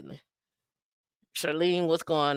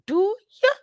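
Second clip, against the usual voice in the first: high, drawn-out teasing question; playful challenge; 4 dB louder than usual. Acted. Host asking viewers if they know their worth, playful challenge. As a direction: needle them with a high-pitched "ya?".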